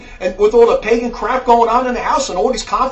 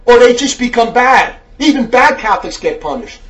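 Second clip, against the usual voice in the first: fiery preaching; 5 dB louder than usual. Real, not acted. Preaches in angry rebuke.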